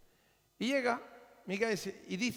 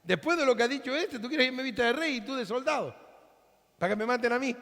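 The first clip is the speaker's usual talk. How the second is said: imitating Jehoshaphat; 3 semitones higher, faster than usual. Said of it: "Yo soy el rey Josafat".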